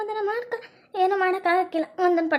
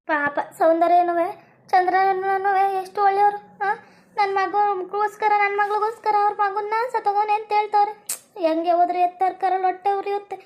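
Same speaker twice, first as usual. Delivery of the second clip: tearful lament; 2 semitones higher than usual. Acted. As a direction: drag each word out like a mourning cry. Mother laments her son's fate.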